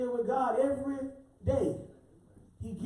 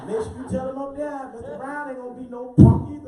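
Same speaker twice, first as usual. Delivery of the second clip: rising from plain to a loud laughing shout; a teacher telling a student off, ending in a laughing shout; retold teacher's retort; 6 dB louder than usual. Teacher telling off a student, building to a laughing shout. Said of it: "I said".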